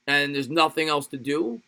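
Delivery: normal talking voice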